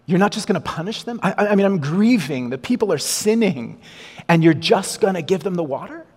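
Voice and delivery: a mild indignant rant at God; indignant protest. Pretend. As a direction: pour out the complaint at God. Moses' imagined protest to God.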